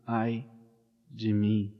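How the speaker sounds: ordinary talk, nothing marked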